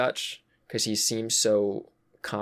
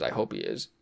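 under the breath, much lower and softer; whispered aside; 13 semitones lower, 6 dB quieter, faster than usual. Real, not acted. Host quietly hoping Dutch still thinks of Arthur, whispered. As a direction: say it to yourself, almost unheard.

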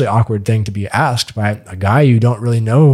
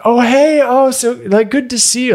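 mock woman's greeting pitched way higher, caught out; a hammed-up high voice for the flustered date greeting the other guy; 13 semitones higher than usual. Woman caught on a date greets the second guy, high mock voice. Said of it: "she says to the guy".

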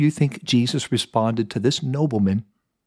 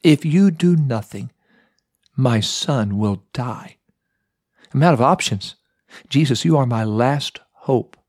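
desperate begging. Retold or imitated. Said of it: "You can hear desperation in his voice".

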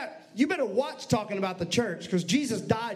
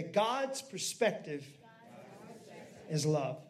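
slow and soft for the congregation to echo; leading the congregation in a slow, soft refrain; slow call to repeat; 7 semitones lower, 6 dB quieter, slower than usual. Shown as a demonstration. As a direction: draw it out so they can say it with you. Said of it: "Say it with me".

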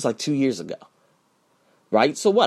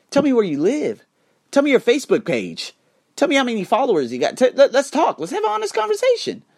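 challenging troll; 10 semitones higher than usual. Acted.

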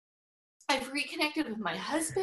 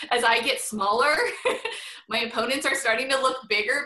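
laughing; 5 dB louder than usual. Real, not acted. Laughing at her own joke.

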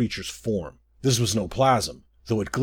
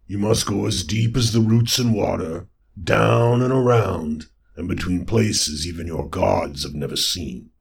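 toad lord; 3 semitones lower, 4 dB louder than usual. Acted. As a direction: proclaim it like a deep swamp god. Lord of Muck gives directions.

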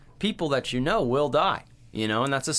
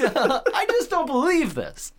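much higher, slow, overacted line; slow squeaky parody of the same line; exaggerated cheesy actor; 5 dB louder, slower than usual. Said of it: "Like, he's".

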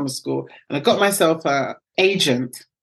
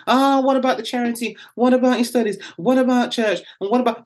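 higher, nagging what-about questions; a mild mock of nagging doubters; whatabouters' nagging; 5 semitones higher, faster than usual. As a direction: mimic doubters listing objections. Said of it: "I call them the whatabouters".

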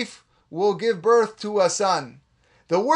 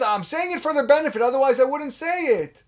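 mock self-justifier; 5 semitones higher than usual. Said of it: "How many times you heard this?".

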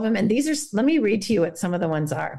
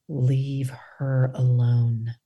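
whisper; 7 semitones lower, much slower than usual. Pretend. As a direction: whisper it to the listener. Meditation phrases whispered.

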